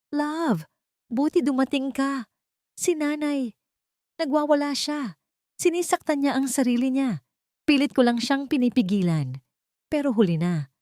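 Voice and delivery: high, pleading put-on victim voice; fake crying victim. A narrator's reading. Wife fakes tears to her husband, high and pleading. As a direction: play the innocent victim, near tears. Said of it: "Bigla itong umiyak at nag-act na parang siya ang biktima".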